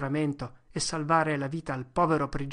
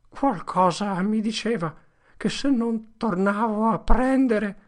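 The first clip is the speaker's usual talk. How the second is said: higher, louder, slowing despair; broken confession; 7 semitones higher, 7 dB louder than usual. Acted. Potter collapsing on the ground, despairing and slow. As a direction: let it fall apart.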